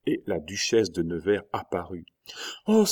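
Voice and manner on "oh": exclaiming. A narrator's reading. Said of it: "s'écria Marguerite".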